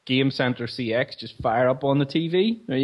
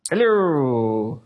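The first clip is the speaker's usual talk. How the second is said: Nottinghamshire accent, put on; 4 dB louder than usual. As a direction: greet in a thick Nottinghamshire accent. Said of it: "spot on Nottinghamshire accent".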